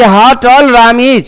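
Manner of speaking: drawn-out, very slow demo of "How tall Ram is"; slow teaching read. Shown as a demonstration. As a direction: stretch it out for the class. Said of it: "अब ये आराम से sentence बना दे". (बहुत धीरे, खींचकर)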